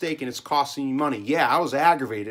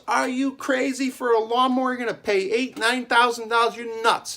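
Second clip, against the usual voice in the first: higher, louder incredulous dad; father scolding; 10 semitones higher, 4 dB louder than usual. Retold or imitated. Dad scolding son over pricey mower, higher and louder. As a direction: play the dad who thinks his son lost his mind. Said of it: "my father goes".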